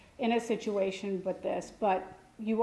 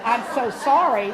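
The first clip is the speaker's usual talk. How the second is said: exasperated; 6 dB louder than usual. Retold or imitated. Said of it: "surely you can think of something else".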